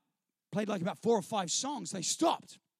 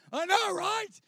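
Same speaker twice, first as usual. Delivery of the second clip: higher, eager I know right; pitched-up mock agreement; 9 semitones higher, 4 dB louder, slower than usual. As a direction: egg on the other guys. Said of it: "And I'm going".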